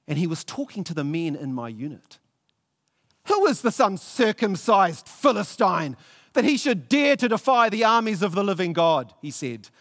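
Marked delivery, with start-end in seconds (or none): 3.3-9.1 indignant outcry. Acted. Young David indignant before the soldiers.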